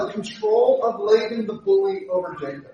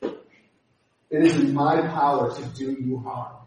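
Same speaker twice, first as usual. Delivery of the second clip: lower, slow menacing threat; threatening; 4 semitones lower, slower than usual. Retold or imitated. Laban warns Jacob he could harm him, low and menacing. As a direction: drop the voice and threaten. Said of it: "he threatens him".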